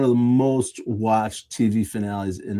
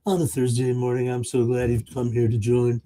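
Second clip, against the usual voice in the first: AM radio voice. Pretend. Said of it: "as I go into my A M radio voice".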